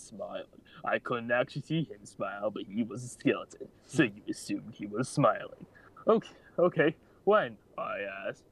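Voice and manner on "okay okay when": high, eager awkward squeak; too eager, tripping over herself; super awkward voice. Acted. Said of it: "super awkward talking voice".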